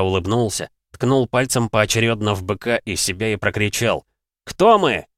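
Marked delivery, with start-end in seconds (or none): 4.4-5.1 loud, high call to the crowd; rallying shout. Acted. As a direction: rouse the crowd. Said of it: "fighter calls to crowd".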